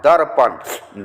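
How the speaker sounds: दर्पण drawn out slowly, darpan; slow demonstration. Shown as a demonstration. Teacher slowly models the word for students, darpan. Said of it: "उसको इसमें द में मिला देंगे".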